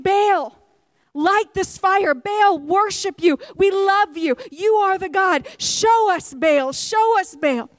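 a hint of chanting worshippers; pleading prophets. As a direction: beg the idol, drawn out. Prophets calling out to Baal.

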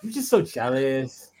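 put-on white girl voice. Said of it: "my white girl voice is pretty good".

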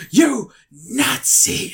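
high, drawn-out accusing cry; mock freak-out. Woman recognising a German scientist, imitated high outcry. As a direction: imitate her crying out in horror, slow and high. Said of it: "she's, like, freaking out".

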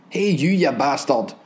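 put-on drunk tramp slurring, slow; loud slurred voice. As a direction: slur it out like a drunk. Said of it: "came a loud, slurred voice".

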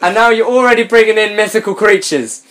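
laughing disbelief. Real, not acted. Laughing incredulous rant.

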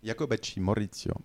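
put-on names said with an Italian accent. Contestant answering the quizmaster, Italian accent. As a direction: give the name an Italian lilt. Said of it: "très bel accent".

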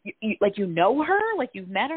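retelling her own disbelief; incredulous questions. Retold or imitated. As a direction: pelt them with shocked questions. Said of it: "And I was like".

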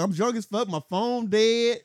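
put-on high, slurred, slow drunk voice; imitating a drunk stranger dragging words; drunk woman. Retelling to friend, a drunk woman's slow high whine.

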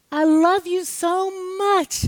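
high, slow, sung-out I love you so much; loving cadence. Retold or imitated. Mother showing love in a new cadence. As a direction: stretch it out high and tender. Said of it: "how many different cadences".

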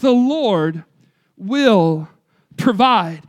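the Lord, will, provide each set apart by a pause; measured pauses. Real, not acted. Preacher pausing between words.

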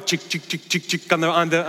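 short, even ratcheting clicks; imitated coaster clicking. Imitating the roller coaster's climb, clicking noises.

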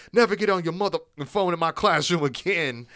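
imitated classroom outburst; angry teacher. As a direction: lay down the law to a student, hammed up. Acts out teacher after throwing phone.

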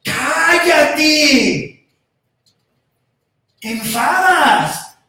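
loud, high, scolding shout; crowd hushing. Acted. Crowd scolding the blind men, angry loud shout. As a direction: snap at them to shut up. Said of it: "las multitudes".

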